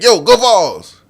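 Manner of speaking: high, loud, drawn-out Go Vols; slow shouted greeting. Retold or imitated. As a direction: stretch the shout out slowly. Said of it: "And I said".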